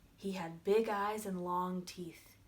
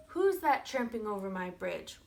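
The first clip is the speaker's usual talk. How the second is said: louder troll challenge, moderately roared; troll's roar; 7 dB louder than usual. Acted. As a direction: roar at the trespasser, in storybook style. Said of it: "roared the troll".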